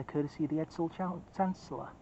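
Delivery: words slurred without teeth in; fumbling the name, dentures out; loose dentures. Real, not acted. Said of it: "let me put my teeth in".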